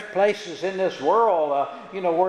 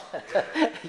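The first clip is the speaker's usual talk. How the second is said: short laugh; 5 semitones higher, 5 dB quieter than usual. Real, not acted. Laughs after quoting verse.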